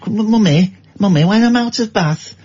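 put-on high, whiny northern child pleading with mum; mock Victorian mill kid. Son begging his mam for coal to play with, whiny child voice.

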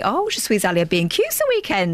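put-on French spoken with a broad Luton accent; comic Luton take on schoolroom French. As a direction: imitate a teacher's French in Luton tones. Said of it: "like, a Luton accent".

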